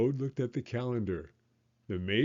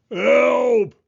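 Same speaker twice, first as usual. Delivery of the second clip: high, loud startled yelp; dazzled toad yelps; mock cry for help; 13 semitones higher, 11 dB louder than usual. Toad blinded by light.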